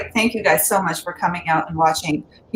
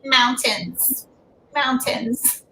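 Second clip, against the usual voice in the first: awkward friend; 5 semitones higher, much slower than usual. Retold or imitated. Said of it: "they're like".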